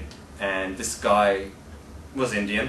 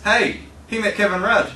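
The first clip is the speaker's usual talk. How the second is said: imitating; 9 semitones higher, 3 dB louder than usual. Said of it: "and he goes".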